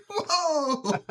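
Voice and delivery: high, laughing whoa; a stunned, giggling whoa. Retold or imitated. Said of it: "I was like".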